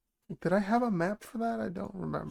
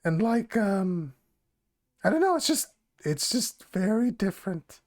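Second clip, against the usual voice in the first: lightly voiced goblin woman; hesitant goblin woman, feeling for words. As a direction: put on a modest goblin voice. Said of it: "I have to do the goblin voice".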